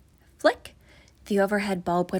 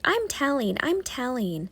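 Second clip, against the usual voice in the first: teasing singsong; 4 semitones higher than usual. Acted. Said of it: "he taunted and teased".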